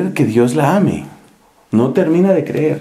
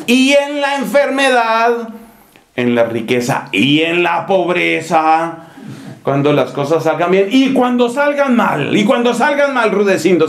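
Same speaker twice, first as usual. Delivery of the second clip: pushing, higher questioning officiant; mock wedding officiant; 5 semitones higher than usual. Priest grilling Rudecindo at the altar, mock stern. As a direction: press the groom for a real answer.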